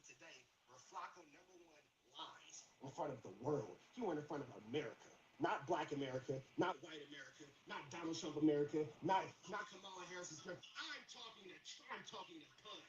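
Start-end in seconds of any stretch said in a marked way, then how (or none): 2.2-10.6 low, loud list hammered out; emphatic low-voiced oratory; low grandstanding. Real, not acted. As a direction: build the accusation like a stump speech, pitched low. Grandstanding accusation against Flacco.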